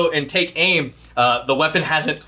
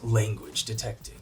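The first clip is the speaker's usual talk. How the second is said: deep robot voice; 5 semitones lower, 9 dB quieter than usual. Acted. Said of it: "like, deep voice".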